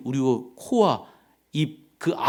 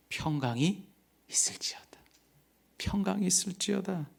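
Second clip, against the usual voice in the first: quiet blessing; 7 semitones higher, 4 dB quieter than usual. Acted. Jesus' words quoted softly.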